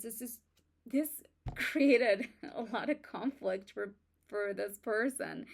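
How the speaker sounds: stumbling over the words; halting, repeating words; stuttering. Real, not acted. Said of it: "I'm, like, stuttering today".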